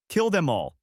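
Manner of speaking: crazed shout. A narrator's reading. Crazed order.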